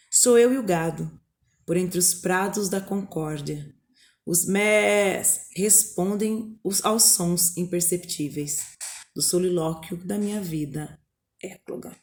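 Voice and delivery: measured recital, the last word dropping to a whisper; poem reading. Acted. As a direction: read the pastoral lines like a poem. Reads the eclogue excerpt.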